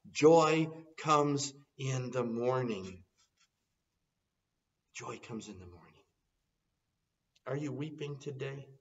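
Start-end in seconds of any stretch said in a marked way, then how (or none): 0.1-3.0 slow and louder, ringing out; triumphant slow declaration; joyful proclamation. Acted. Preacher proclaims then echoes softly. 4.9-5.8 much softer, hushed repeat; quiet reflective echo. Acted. Preacher proclaims then echoes softly.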